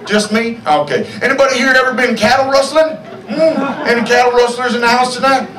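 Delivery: hammy frontier comic voice, lightly voiced; corny cowboy comic fishing for laughs; lightly voiced old-timey stand-up; Old West comedian. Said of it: "That was the comedian".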